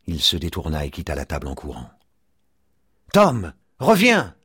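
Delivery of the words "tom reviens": high, drawn-out call. A narrator's reading. Father calls after his fleeing son, urgently. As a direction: call him back, slow and high. Calling after the running child.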